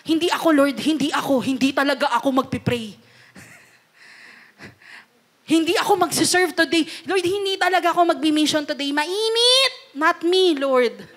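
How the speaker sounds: hammed-up excuses of a Jonah; reluctant Jonah. Preacher playing Jonah refusing God's mission, mock whining. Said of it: "kasi ayaw niya".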